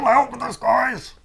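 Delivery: high and loud call. Acted. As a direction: call the others over. Bird calls other birds.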